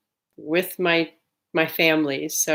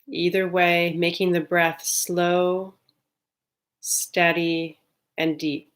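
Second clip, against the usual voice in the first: calm, unhurried meditation guide with long pauses; guided meditation. Real, not acted. Leading listeners to settle on the breath, calm guided meditation. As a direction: ease listeners into stillness, evenly and gently.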